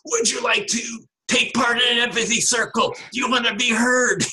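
high, energetic, bright-eyed offer; energetic version of the invitation to the protesters. Shown as a demonstration. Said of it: "it would be sort of a energetic".

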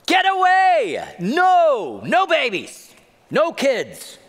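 high, loud shout to shoo them off; rebuking shout. Retold or imitated. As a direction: yell at the parents to go away. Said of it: "They rebuked them".

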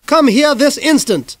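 very high, loud, slow stern command; mother losing patience, demanding now; angry shout. Acted. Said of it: "Mom shouted".

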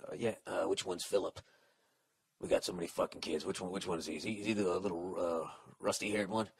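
mock clueless dad.

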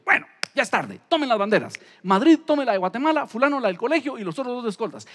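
director's orders. Retold or imitated. Energetic director giving orders.

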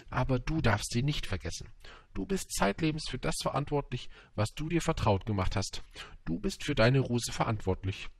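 lightly voiced wise fox; fox admonishing. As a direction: press the lesson on your young friend.

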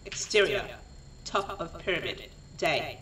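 deliberate, projected scene reading; script narration. A narrator's reading. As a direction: read out stage directions in short phrases with pauses.

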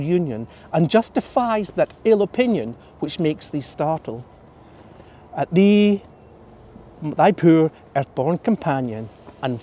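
measured Scots poetry reading, unhurried at the close; reciting Burns to an audience; poem recital. Acted. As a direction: read the old verse with care, lingering on the last line.

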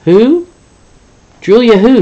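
high, loud bewildered questions; puzzled boss. Acted. Zoo boss asking the caller who, high and loud. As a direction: thrown by the caller's name.

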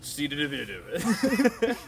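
put-on lightly drunk-sounding gibberish; drunk guy. Shown as a demonstration. Puzzling out the riddle aloud, like a drunk guy. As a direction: stumble through the syllables like a drunk. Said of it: "Sounds two drunk guys".

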